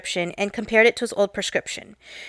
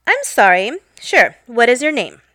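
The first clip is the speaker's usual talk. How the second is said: polite repeat. Retold or imitated. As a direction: repeat it with a fake polite smile. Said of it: "and politely repeat".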